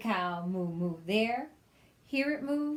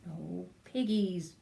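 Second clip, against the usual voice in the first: mooing cow; slower than usual. Acted. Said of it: "mooed the cow".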